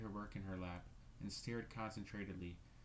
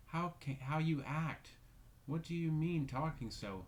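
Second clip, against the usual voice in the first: loud, higher, furious rebuke; fury; 7 semitones higher, 6 dB louder than usual. Acted. Caroline rounding on Rebecca in loud fury. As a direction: lash out at her sister. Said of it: "turned upon her with a sort of fury".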